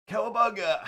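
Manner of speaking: high surfer shout through laughter; laughing cowabunga. Pretend. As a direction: yell it, cracking up. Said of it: "I lost the voice completely".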